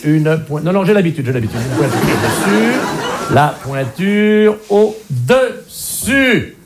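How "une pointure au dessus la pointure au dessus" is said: slow, laughing through the phrase; laughing repetition. Acted. Doctor repeating the shoe size, laughing. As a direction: giggle while drawing it out.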